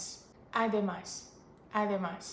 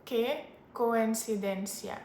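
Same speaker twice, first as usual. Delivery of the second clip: Latin American Spanish, c said as s; slow Latin American pronunciation of coincidencia, with an s sound; Latin American accent; slower than usual. Shown as a demonstration. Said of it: "like, Latin American accent".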